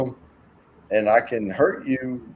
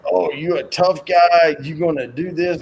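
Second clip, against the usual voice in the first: higher-pitched goading challenge; mock bully taunt; 6 semitones higher, 4 dB louder than usual. Bar bully goading the smaller man, taunting. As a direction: imitate a big guy picking a fight.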